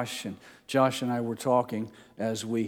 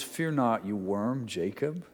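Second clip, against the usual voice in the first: gentle; 3 dB quieter than usual. Acted. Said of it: "It sounds weird to us when he says".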